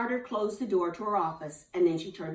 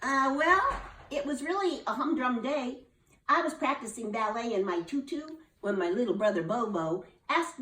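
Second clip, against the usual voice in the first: put-on high child voice rattling on; chatty little girl; 5 semitones higher than usual. Lulu tells the nurse about her day, high and chatty. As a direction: tell it all in one breath.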